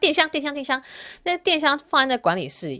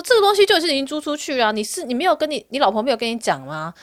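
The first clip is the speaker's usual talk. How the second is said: raised, exasperated scolding; angry retort; 5 semitones higher than usual. Retold or imitated. Scolding the drunk landlord on the phone, raised and exasperated. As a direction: scold him for not checking. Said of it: "我就觉得说".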